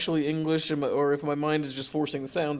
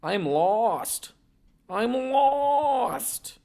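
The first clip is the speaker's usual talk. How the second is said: eerie crying; 9 semitones higher, much slower than usual. Acted. Acting eerie lost voice, crying.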